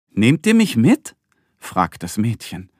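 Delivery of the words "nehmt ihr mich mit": put-on high, loud, eager girl's question; girl calling out. Girl in the tower asking for a ride, high eager call.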